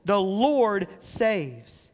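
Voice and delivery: "Lord" and "saves" each slow and drawn out; bold proclamation. Acted. Preacher voicing those who said his name, proclaiming boldly. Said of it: "they were proclaiming boldly".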